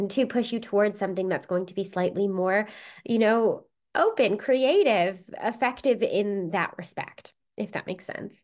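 nasal from a cold; speaking with a head cold; stuffed-up nose. Real, not acted. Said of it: "I sound a little ill".

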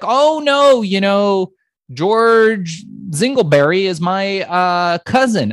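high, loud put-on voice of a relative on the phone; cousin's voice. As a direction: play the friendly cousin in a high, pushed voice.

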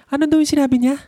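high, puzzled question in a partner's voice; Bebe. Retold or imitated. Asking partner what was said in the film, high mock puzzlement. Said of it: "Laging itatanong sa akin ni Bebe".

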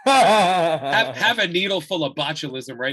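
a loud, laughing bark of a sales pitch; hammed-up nasty pitchman; mock harsh ad voice. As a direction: jab the offer at him, half laughing. Mocking the ad's harsh pitch.

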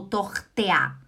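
"Tortea" ending in a split "te-a"; wrong vowel ending. Shown as a demonstration. Teacher showing another mistake, "Tortea" as TOCH-te-a. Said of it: "Não é Tochter ou Tortea".

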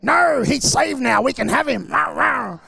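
high, loud, slow put-on girly voice; squealing mock girls' voice; mimicking eager girls. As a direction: play the giddy girls claiming him. Girls reply, mimicked by pastor.

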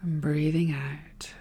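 soft whispered exhale cue. Real, not acted. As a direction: breathe the words out in a whisper.

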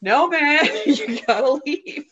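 lightly voiced stern bouncer; firm bouncer voice. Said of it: "they kept being like".

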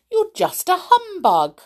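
high, singled-out jibe; amused storybook taunt; teasing mockery. A narrator's reading. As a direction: poke fun at the doll. Laughing toys tease the doll.

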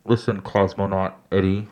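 a light mock Russian cosmonaut accent; half-hearted mock Russian accent. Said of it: "couldn't pick any other accent besides cosmonaut".

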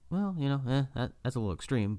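put-on high, prim girl voice; lightly imitating her prim reply; a touch of a disapproving girl; mock high girly voice.

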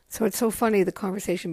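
laughing while talking. Real, not acted. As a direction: giggle through the words. Laughs at the memory.

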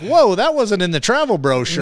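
laughing quip. Retold or imitated. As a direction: joke through the fear. Joking reaction to charging buffalo.

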